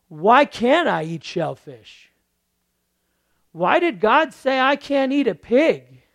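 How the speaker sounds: mock indignant why; mock puzzled asking. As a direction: voice the confused believer, loud. Preacher voices puzzled believer.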